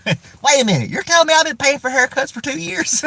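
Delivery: squeaky hammed-up hick outrage; redneck guy. Joke video redneck learning he paid for haircuts, high disbelief. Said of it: "my joke video was gonna be".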